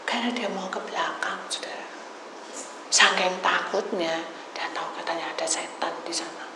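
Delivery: hushed, unvoiced telling; whisper. Real, not acted. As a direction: drop to a secretive whisper. Berbisik soal setan. (berbisik pelan)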